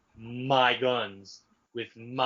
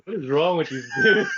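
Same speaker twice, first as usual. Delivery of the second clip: exasperated; 6 semitones higher, 6 dB louder than usual. Real, not acted.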